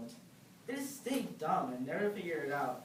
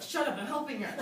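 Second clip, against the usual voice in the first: mock shout back; 7 semitones higher, 4 dB louder than usual. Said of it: "I'm just like".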